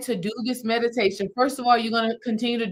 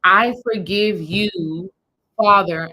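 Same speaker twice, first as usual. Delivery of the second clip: slow earnest forgiveness; 6 dB louder, slower than usual. Shown as a demonstration. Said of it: "you want to say".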